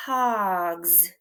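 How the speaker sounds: hogs clapped out in one beat; clapped syllable. Shown as a demonstration. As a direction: clap it out with the word. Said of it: "Hands together".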